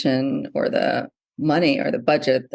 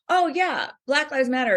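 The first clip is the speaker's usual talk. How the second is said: much higher-pitched mock helpful reply; imitated breezy bookseller; 9 semitones higher than usual. Bookseller pointing customer to a section, high-pitched breezy imitation. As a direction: mimic an obliging clerk, pitched way up.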